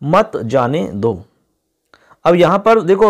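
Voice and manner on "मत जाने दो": मत जाने दो slow, as one unit; separate phrase after comma. Shown as a demonstration. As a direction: draw out मत जाने दो evenly. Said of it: "फिर कॉमा".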